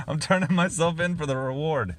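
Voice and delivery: a clumsy mock English accent; doing a deliberately bad English accent. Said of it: "That's a really bad English accent".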